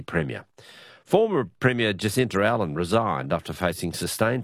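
radio news bulletin delivery; news read. Acted. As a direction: read out the day's political news to listeners. Presenter reads the news round-up.

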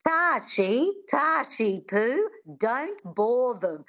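high, slow motherly scold; sing-song, slow call to a daughter; mother impression. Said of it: "I can still do my, her impersonation".

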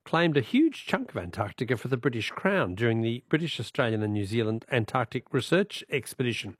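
measured, emphatic presenter read; deliberate, projected history-segment narration; scripted radio intro. Acted. Radio host introducing an archive clip to listeners, measured presenter read.

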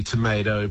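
tomato with the long AY vowel; American pronunciation. Shown as a demonstration. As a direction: say tomato as "to-MAY-to". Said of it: "America often stands alone with these".

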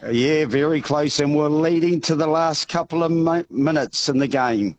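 hoarse, strained voice; croaky voice. Real, not acted. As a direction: talk through a voice lost from cheering. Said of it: "I am croaky".

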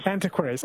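Antiquaries repeated as an-TIK-wair-eez, falling; echoing the right pronunciation. Shown as a demonstration. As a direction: copies the guest's Antiquaries, confirming it. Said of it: "is it Antiquaries or Antiquaries?".

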